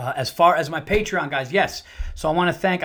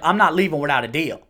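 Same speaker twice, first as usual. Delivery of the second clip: louder, stubborn Southern refusal; imitated Southern accent; 6 dB louder than usual. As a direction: lightly mimic a Southerner digging in.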